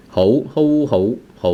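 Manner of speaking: 好 said as hou with a second, rising tone. Shown as a demonstration. Teacher repeating 好 for students, rising tone. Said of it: "this is the rising tone".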